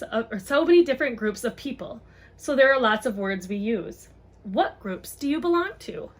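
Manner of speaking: gentle picture-book read-aloud; reading to children. Acted. Mom reads a book on race to viewers, storytime voice.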